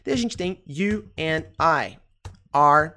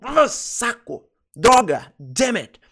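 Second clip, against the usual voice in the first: mock exclamation; 3 semitones higher, 4 dB louder, slower than usual. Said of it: "uma exclamação, quando você fala".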